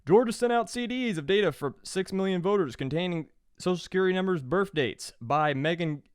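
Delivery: quick run through the headlines; rattled off fast. Shown as a demonstration. Host reading the episode's sources to listeners, quickly rattled off. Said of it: "I'm just gonna rattle out all of 'em, uh, super fast".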